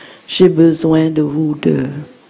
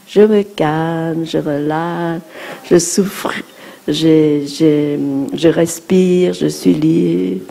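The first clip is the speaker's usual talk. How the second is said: calm breathing phrases; slower than usual. Shown as a demonstration. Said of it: "guided breathing demo".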